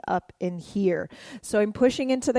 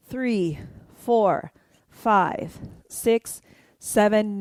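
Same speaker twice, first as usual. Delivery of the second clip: dance count; slower than usual. Shown as a demonstration. Counting along to dance moves.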